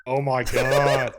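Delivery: drawn-out, loud disbelief; amazed reaction. Real, not acted. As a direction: stretch it out in real amazement. Reacting to story of being spotted.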